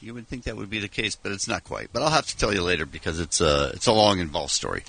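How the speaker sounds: hushed, low-key voice; speaking softly, almost whispering; half-whispering. Real, not acted. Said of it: "You're sort of whispering".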